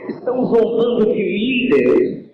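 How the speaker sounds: put-on blind Samson begging the boy and God, pleading. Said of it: "falou com aquele moço".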